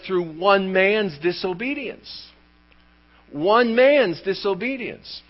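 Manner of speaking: slow, deliberate weight on "one man's"; stress on one. Shown as a demonstration. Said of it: "The emphasis is on the one".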